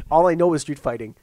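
imitating Khabib. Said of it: "I goes".

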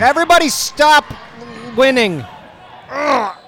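high, loud anguished wail; despairing shout. Real, not acted. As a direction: cry out in sporting despair.

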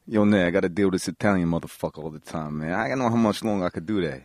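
low, street-tough character voice; Tommy. Acted. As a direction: grumble it low and put-upon, in character. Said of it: "I need you to be Tommy".

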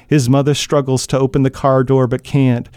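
steady, measured reading of a tense scene; even storyteller voice over a car crash; story narration. A narrator's reading. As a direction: read it like an audiobook narrator drawing listeners in.

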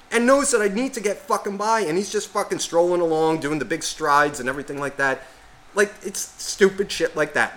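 venting with mounting exasperation; worked-up rant. Retold or imitated. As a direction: rant about an infuriating road hog. Ranting about a biker blocking him.

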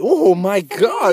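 slow drawn-out amazement; surprised. Real, not acted. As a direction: gasp it out slowly in shock. Shocked at what she shows.

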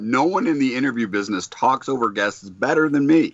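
talking while crunching ice; words round a mouthful of ice. Real, not acted. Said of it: "While, while crunching on an ice cube".

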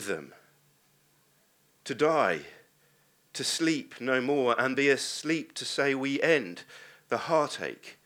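measured Shakespeare soliloquy, lines weighed; dramatic recitation. Acted. Preacher reciting Hamlet to his congregation, measured and dramatic.

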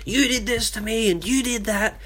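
imitating someone yelling in an argument; mock yelling. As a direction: play the furious accuser, half-hearted. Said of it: "starts yelling".

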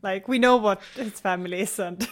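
talking through a mouthful of cookie; words round a bite of gingerbread; chewing while talking. Real, not acted. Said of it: "I am eating gingerbread".

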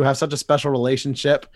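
usual speaking voice

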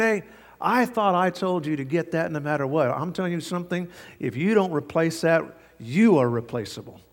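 firm, mildly heated telling-off; retold angry boss, emphatic; infuriated boss. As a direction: lay down the law, mildly acted.

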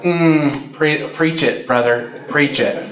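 lightly put-on Southern churchgoer; mock a Southern amen corner, lightly; Southern accent. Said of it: "you have a southern accent".

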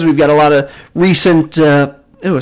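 hiccuping mid sentence; hiccups. Real, not acted. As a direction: caught by a hiccup. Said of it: "sorry, hiccups".

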